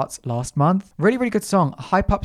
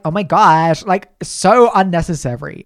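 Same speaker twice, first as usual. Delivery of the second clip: loud, hammed-up cringe at yourself; mock exasperation; 2 semitones higher, 8 dB louder than usual. Host recalls cringing at own accent in an interview, loud mock exasperation.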